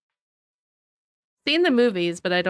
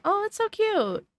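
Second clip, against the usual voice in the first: delighted squeal; 12 semitones higher than usual. Real, not acted. Sees cute item.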